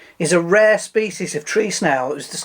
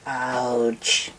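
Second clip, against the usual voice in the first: small alien creature impression; drawn-out little alien croak; 3 semitones lower, 4 dB quieter than usual. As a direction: put on a film-alien voice. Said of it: "And now do E T".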